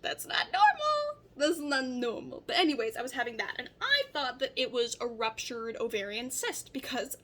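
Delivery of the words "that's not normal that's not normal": high, loud alarmed whoa; startled and worried; alarmed surprise. Retold or imitated. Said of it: "these bloating episodes were like".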